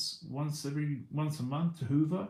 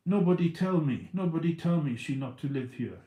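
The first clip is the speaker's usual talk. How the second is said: imitating the landlord's broken English, louder; a mock foreign accent, raised up loud; 4 semitones higher, 6 dB louder than usual. Landlord's words retold in a mock foreign accent. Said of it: "in his, uh, foreign accent".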